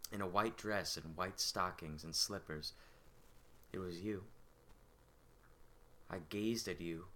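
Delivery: well-spoken servant recounting a childhood memory, lightly acted; measured monologue with long reflective pauses; Jean. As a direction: confide a poor child's longing, understated. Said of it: "the character here is Jean".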